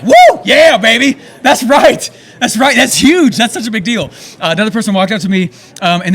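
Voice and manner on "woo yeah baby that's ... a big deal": very high, loud whooping cheer; celebration yell. Retold or imitated. Hearing a fan's first sale, whooping cheer. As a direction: cheer him on like a sports win.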